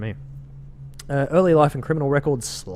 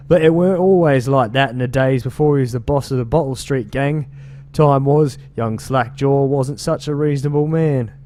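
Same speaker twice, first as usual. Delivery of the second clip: a lightly put-on British street accent, a bit louder; 3 semitones higher, 5 dB louder than usual. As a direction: read it as a London gang member with a British accent. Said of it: "should I be reading this in a British accent?".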